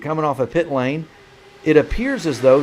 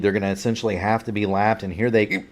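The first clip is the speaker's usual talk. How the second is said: hiccuping through the call; hiccups; 6 semitones lower, 3 dB quieter, faster than usual. Real, not acted. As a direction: speak while fighting hiccups. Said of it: "I've got the hiccups".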